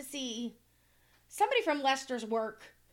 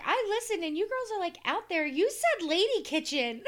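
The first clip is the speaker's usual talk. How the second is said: high fan voice; 5 semitones higher than usual. Retold or imitated.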